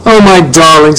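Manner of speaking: a mother's gently startled "oh"; mildly surprised. A narrator's reading. Mom to her son who starts crying, mildly surprised. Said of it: "kind of surprised".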